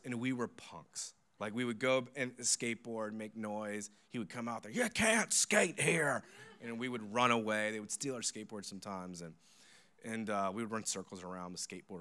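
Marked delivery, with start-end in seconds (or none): 4.7-6.2 high, drawn-out mock scolding; angry pastor. Pastor chasing skateboarders off church property, mock angry scolding. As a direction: imitate a fed-up pastor, loud and slow. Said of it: "the pastor could not stand us".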